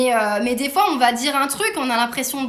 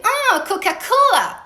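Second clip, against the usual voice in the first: mock waitress; 9 semitones higher, 4 dB louder, much slower than usual. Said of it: "elle me fait".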